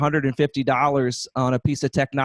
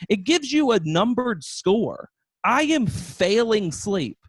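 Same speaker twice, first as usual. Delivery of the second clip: exasperated; 6 semitones higher, slower than usual. Real, not acted. Exasperated rant about sleep score.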